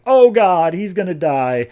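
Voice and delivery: hammed-up horrified shout; mock scream. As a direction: yell it out like the hero is dying in front of you. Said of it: "like, screaming out".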